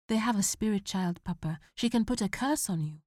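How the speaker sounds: put-on worried young son; pleading boy. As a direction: beg him not to leave. Boy warning of curse.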